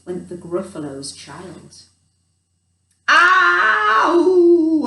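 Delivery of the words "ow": sudden high loud yelp; startled cry. Acted. Gruffalo's child spotting a trail, startled yelp. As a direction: jump at what you see.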